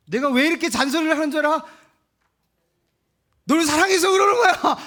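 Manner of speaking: high, loud mock parent insisting it is love; a hammed-up shrill defense of the nagging; exasperated parent yelling it is all for love.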